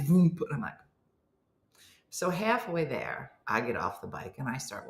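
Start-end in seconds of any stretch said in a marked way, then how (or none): 0.1-0.4 imitated pedal slip.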